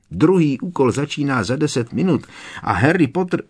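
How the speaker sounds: high squeaky elf shriek; shrieking house-elf. A narrator's reading. Dobby shrieks at Harry to hurry. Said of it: "vřískl Dobby".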